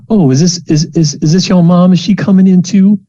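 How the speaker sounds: bright, eager greeter voice; perky TA. Acted. Teaching assistant greeting the student, high and chirpy. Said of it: "she says".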